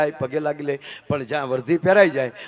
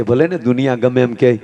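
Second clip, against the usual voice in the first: lower-pitched, earnest comforting; steady reassurance; 4 semitones lower, 3 dB louder than usual. Acted. Wife stands by her despairing husband, low steady reassurance. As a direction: reassure him firmly in a low register.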